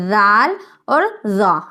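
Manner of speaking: زال said softly and slowly; soft ذال. Shown as a demonstration. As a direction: ease gently into زال, then زا. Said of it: "نرمی کے ساتھ پڑھنا ہے". (نرمی سے ذال اور زا)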